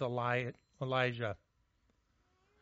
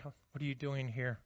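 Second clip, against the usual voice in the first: hushed, softer question; soft whisper; 4 semitones lower, 6 dB quieter than usual. Acted. God asking Elijah again, softly whispered. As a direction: whisper it again, intimate and near. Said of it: "It's a whisper".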